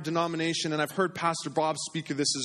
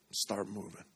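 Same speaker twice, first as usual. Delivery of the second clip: "Start moving" repeated much softer, falling; soft echo; 8 semitones lower, 9 dB quieter than usual. Shown as a demonstration. Pastor echoing his own call to the congregation, softly. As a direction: let "Start moving" echo back quietly. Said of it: "and start moving".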